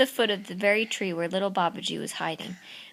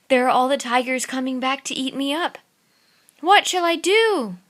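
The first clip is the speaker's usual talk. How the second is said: put-on frightened boy; 3 semitones higher, 5 dB louder than usual. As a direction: panic as the tigers come back. Babaji frightened by tigers.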